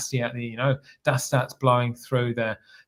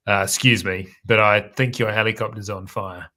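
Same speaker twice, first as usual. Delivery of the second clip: cool calm Kiwi voice; 4 semitones lower than usual. Retold or imitated. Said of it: "in my coolest, calmest Kiwi voice".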